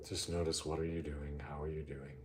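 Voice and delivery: quiet, calm meditation voice with long pauses; guided meditation. Real, not acted. Guiding listeners to notice how they are, calm meditation voice. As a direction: invite listeners inward, gently.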